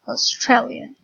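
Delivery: Australian with the stress on "stra"; Australian, leaning on the syllable "stra"; stress on second syllable. Shown as a demonstration. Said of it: "the stress is in stre".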